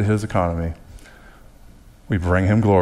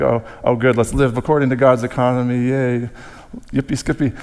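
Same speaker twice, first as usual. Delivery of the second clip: higher-pitched hammed-up glee; mock cheer; 4 semitones higher than usual. Preacher voicing believers delighted to live by God's economy, mock cheer. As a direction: put on a naive, gleeful cheer. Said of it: "it almost seems like a down, like".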